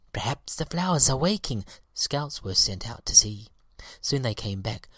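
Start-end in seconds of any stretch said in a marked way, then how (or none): 0.1-1.7 higher, louder bee voice; hopeful excited buzz of voices. A narrator's reading. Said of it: "cried the bees".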